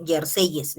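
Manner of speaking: "jerseyes" with an extra -yes syllable; wrong plural form. Shown as a demonstration. Teacher shows the form to avoid, "jerseyes" with extra syllable. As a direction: sound out the added YES in "jerseyes". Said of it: "No me vas a decir".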